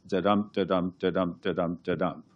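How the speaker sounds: da-dum chanted with the stress on dum each time; iambic beat. Shown as a demonstration. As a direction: tap out the iambic rhythm, weak then strong. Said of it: "a ten syllable line that goes".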